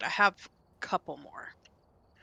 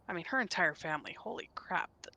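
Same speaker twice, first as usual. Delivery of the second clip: awed whisper; 3 semitones lower, 7 dB quieter, faster than usual. Real, not acted. Awed praise.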